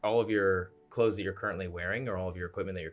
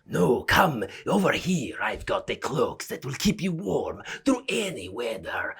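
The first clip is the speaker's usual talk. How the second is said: put-on slow, swooping old vendor's call; older dragonborn gentleman; 3 semitones higher, 5 dB louder than usual. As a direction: coax passers-by over in a put-on old dragonborn voice. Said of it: "older, black Dragonborn gentleman".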